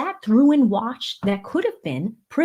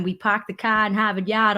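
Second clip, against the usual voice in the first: put-on Boston accent, dropped R's; playful Boston-accent catchphrase. Shown as a demonstration. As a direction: say it like a Boston local. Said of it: "he brings out the Boston accent in me".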